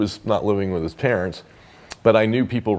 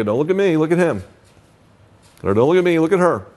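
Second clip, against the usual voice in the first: higher, a bit louder, firmly pointing them to each other; firm redirect; 7 semitones higher, 4 dB louder, faster than usual. Shown as a demonstration. Therapist tells the couple to look at each other, firmly raised. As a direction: steer the couple back to each other with emphasis.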